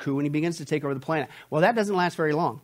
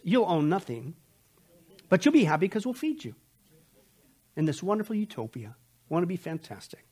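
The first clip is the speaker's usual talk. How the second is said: sarcastic. Acted. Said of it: "I'm getting sarcastic".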